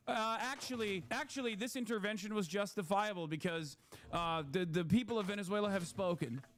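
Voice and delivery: mock a smug liberal who says "actually"; mocking pedantic liberal. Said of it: "liberals would still be like".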